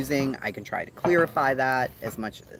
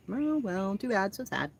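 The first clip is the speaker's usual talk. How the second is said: mocking taunt; 9 semitones higher than usual. Mocking the person who refused.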